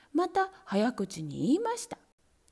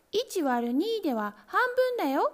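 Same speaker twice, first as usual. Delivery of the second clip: kittens shouting; 7 semitones higher than usual. A narrator's reading. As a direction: correct him all at once. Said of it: "と叫びました".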